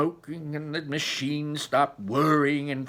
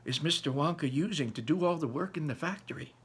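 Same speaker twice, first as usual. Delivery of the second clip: crying out. Acted. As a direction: press Grandpa with urgent curiosity. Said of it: "cried Charlie".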